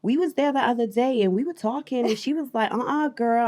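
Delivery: attempted American accent. Shown as a demonstration. Guest asked for it, trying an American accent. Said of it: "uh, American accent".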